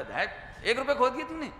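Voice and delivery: mock parental scolding, pitch jumping up; डाँट. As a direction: scold the child over a loss, half in earnest. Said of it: "हमने एक धड़ाका दिया". (बच्चे को डाँटते हुए)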